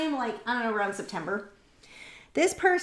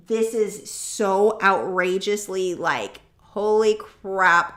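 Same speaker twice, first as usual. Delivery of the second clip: slow, drawn-out, louder exasperation; outraged emphasis; 2 semitones lower, 5 dB louder, much slower than usual. Real, not acted. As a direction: stretch every word out in disbelief. Outrage at neighbours' loud party.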